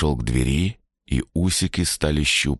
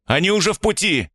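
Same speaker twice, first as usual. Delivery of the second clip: hoarse shout; 14 semitones higher, faster than usual. Acted. Ilya keeps shouting back.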